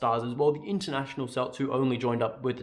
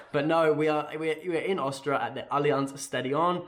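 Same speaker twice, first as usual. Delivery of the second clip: lichte, half grappende imitatie van een Frans accent; French accent; 2 semitones higher than usual. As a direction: zeg het met een vleugje Frans accent. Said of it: "I said that in a French accent".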